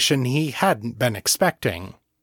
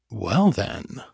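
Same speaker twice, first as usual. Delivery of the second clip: Morgan's voice. Acted. Incubus in Morgan's shape.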